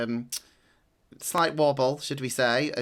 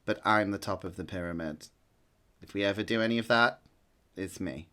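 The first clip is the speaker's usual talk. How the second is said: a touch fussy and lower, insisting on the top spot; lightly voiced fussy boy who wants the top of the pyramid; 3 semitones lower than usual. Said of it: "he says this quite fussy".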